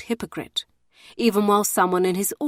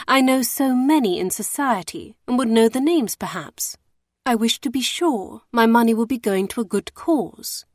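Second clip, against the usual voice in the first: higher, wide-eyed sugary coaxing; fatuous coaxing lady; 4 semitones higher than usual. Acted. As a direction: coax him with feigned innocence. Emmeline feigns fatuous charity.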